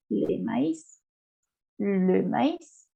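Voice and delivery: "le maíz" with the last letter sounded as S; final S pronounced. Shown as a demonstration. Teacher gives diaeresis example, "le maíz" with audible final S. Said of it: "Esta S sí la pronuncio".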